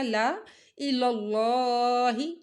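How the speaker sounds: slow, drawn ला इलल्लाही without the extra alif; ला इलल्लाही chanted slowly; Quran recitation demo. Shown as a demonstration. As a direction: recite it as a model for students. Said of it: "इसको नहीं पढ़ा जाएगा".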